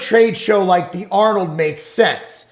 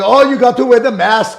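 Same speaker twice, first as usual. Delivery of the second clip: badly done Austrian accent; Arnold Schwarzenegger; 2 semitones higher, 3 dB louder than usual. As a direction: put on a terrible Arnold-style Austrian accent. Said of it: "worst Arnold accent ever".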